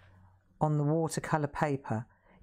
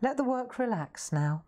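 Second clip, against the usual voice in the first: imitating teacher higher; 5 semitones higher than usual. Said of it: "And she'd say".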